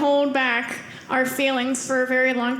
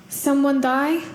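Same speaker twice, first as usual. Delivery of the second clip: put-on Russian accent; slower than usual. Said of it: "he has a thick Russian accent".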